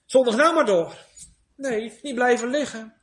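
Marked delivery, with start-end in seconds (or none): 0.0-0.9 coaxing devil, louder and higher at the end; the devil tempting. Retold or imitated. Preacher voices the devil tempting the fallen believer, coaxing. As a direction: lure them to stay down. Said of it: "De duivel zegt".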